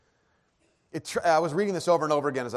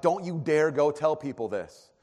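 threatening warning; 3 semitones higher, 4 dB louder than usual. Acted. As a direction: warn them off, drawing out each word. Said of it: "like, threatening".

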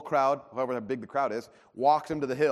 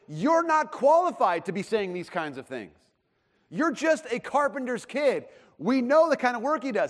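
scornful insult; 7 semitones higher, 3 dB louder than usual. Retold or imitated. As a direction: talk down at the upstart carpenter's son. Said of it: "What they're saying is".

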